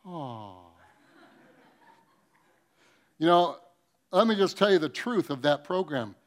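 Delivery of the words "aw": crowd's sympathetic aw. Retold or imitated. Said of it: "millions of people going".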